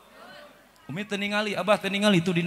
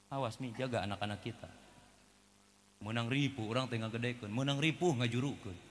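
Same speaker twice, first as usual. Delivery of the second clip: much softer, intimate caution; soft warning; 6 semitones lower, 15 dB quieter than usual. Acted. Preacher quietly warning the parents to guard their children, soft. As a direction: drop to a hushed earnest plea.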